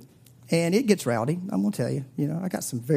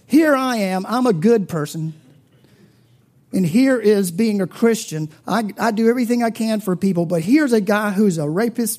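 higher, louder imitated complaint; raised, pushy voicing of the friend; retold friend's rant; 4 semitones higher, 5 dB louder than usual. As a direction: play the indignant good guy venting.

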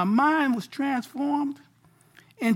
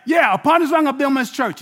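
a touch of a proud shout; eager Peter; 3 semitones higher, 3 dB louder than usual. Retold or imitated. Preacher voicing Peter boasting before the disciples, shouted. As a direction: Peter proudly claiming the rock. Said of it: "Peter's like".

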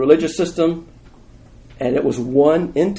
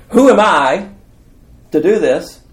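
high, loud objection; incredulous protest; 6 semitones higher, 6 dB louder than usual. Acted. Paraphrases Moses' protest to God.

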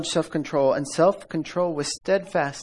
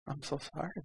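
soft, hushed, unbothered sorry; calm mock apology; 16 dB quieter, faster than usual. To a driver flipping him off, calm soft mock sorry. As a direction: stay calm and fake sympathy quietly. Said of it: "calm as can be".

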